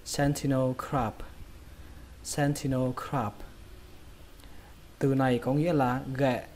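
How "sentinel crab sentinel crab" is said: sentinel crab as SEN-thi-no krahb; puffed T in sentinel, open ah in crab; model pronunciation. Shown as a demonstration. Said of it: "Các bạn đọc lại cho mình".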